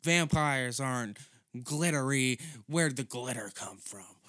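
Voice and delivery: mock old lady. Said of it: "she's like".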